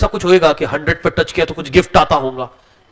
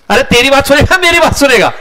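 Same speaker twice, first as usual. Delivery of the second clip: laughing mockery; 5 semitones higher, 4 dB louder than usual. Mocking the neighbour's father.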